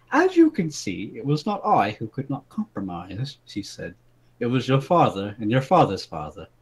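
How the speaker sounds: reading a fairy tale aloud, lightly dramatic; story read aloud. Acted. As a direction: read it like a bedtime story to friends. Reads out his written story.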